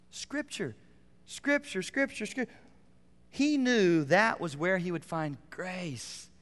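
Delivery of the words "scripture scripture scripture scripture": higher, insistent repeated "Scripture"; repeated emphasis. Real, not acted. Preacher driving the point to the congregation, insistent repeats. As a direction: hammer the word home. Preacher hammering one word.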